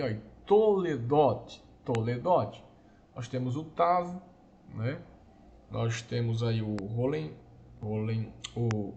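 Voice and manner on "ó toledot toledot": "toledot" slow and louder, to-le-DOT; Hebrew word toledot. Shown as a demonstration. Teacher modelling toledot for students, slow and clear. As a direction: draw out "toledot" syllable by syllable. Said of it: "nós temos a palavra hebraica aí".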